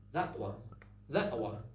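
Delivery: "that" ending in a throat catch before "one"; American "that one" with a glottal stop. Shown as a demonstration. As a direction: say "that one" with a swallowed t. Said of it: "And the answer".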